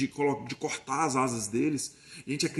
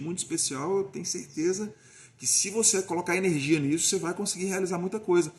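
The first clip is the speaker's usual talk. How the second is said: encouraging father. Retold or imitated. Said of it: "é só você deixar a criança dar vazão".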